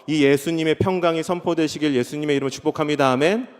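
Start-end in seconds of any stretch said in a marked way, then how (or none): none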